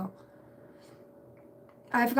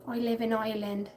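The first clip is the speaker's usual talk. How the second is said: lightly played Irish accent; playful hint of an Irish accent; put-on Irish accent; 2 semitones higher, faster than usual. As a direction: try on an Irish lilt. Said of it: "There's the accent".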